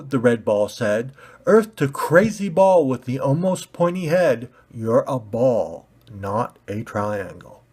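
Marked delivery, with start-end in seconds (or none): 1.5-7.6 condescending. Acted. Red ball talking down to pointy ball, condescending. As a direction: spell it out to a fool.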